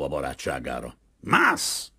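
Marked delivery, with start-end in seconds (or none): 1.2-1.9 one high, drawn-out yell; shouted command. A narrator's reading. Captain yells at Gottfried on the rope, shouted command. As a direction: yell the single word upward. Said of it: "ordította Kazimír".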